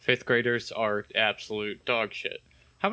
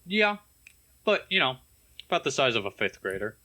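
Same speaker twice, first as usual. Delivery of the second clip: talking while chewing gum; words round chewing gum; mouth full; 2 semitones higher than usual. Real, not acted. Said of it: "Is one of you fuckers eating".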